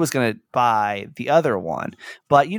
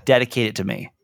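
holding back tears. Real, not acted. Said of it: "I'm gonna try not to cry during this".

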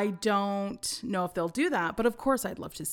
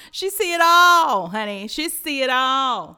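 a touch of sassy diva, higher and louder; 5 semitones higher, 8 dB louder than usual. Acted. Sassy praise of Tinkerbell.

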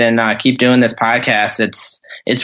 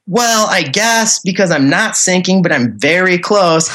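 retold grudging concession, stretched and pitched up; reluctant agreement; 4 semitones higher than usual. Boater on the radio to dispatch at midnight, reluctantly agreeing.

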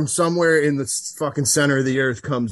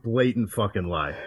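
laughing it off, a bit quieter; 6 semitones lower, 6 dB quieter than usual. Real, not acted. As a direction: chuckle through the denial. Laughing at own clip.

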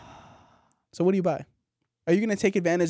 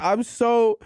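put-on drunk Santa voice; 3 semitones higher than usual. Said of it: "Santa's drunk".

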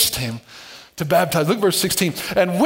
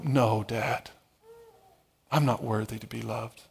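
mock child sulking; 10 semitones lower, 11 dB quieter than usual. Child voiced rejecting love.

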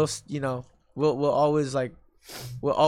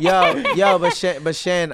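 laughing; 5 dB louder than usual. Real, not acted. Laughing while trying to talk.

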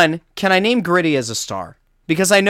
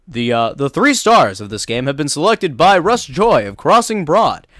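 announcer voice; 3 dB louder than usual. Retold or imitated. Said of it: "they go".

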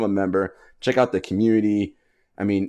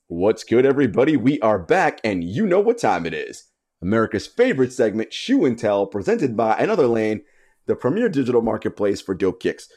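upbeat host read of the sponsor segment; announcer intro; 2 semitones higher than usual. Acted. Host welcoming listeners back to the sponsor segment, announcer read. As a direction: sell the segment like a radio host.

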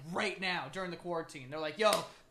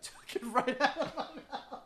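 high mock echo of friend; mocking imitation; 7 semitones higher than usual. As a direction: parrot it back teasingly. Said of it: "Not an expression at all".

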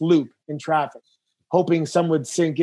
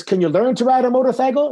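lightly voiced impression, pitched up; a hint of imitated wrestling veteran, higher-pitched; Dusty Rhodes; 6 semitones higher, 3 dB louder than usual. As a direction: put on a mild higher character voice. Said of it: "doing a Dusty impression".

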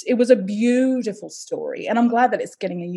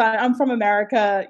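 put-on American accent. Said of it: "an American accent".

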